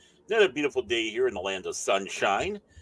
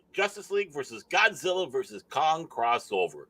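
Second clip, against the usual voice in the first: lifted, emphatic headline reading; halting news-headline read; article read-aloud; 4 semitones higher than usual. Real, not acted. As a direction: read out the headline, stumbling and restarting.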